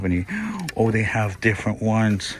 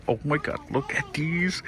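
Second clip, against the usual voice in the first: excited squeal; 8 semitones higher than usual. Real, not acted. Excited at new store items.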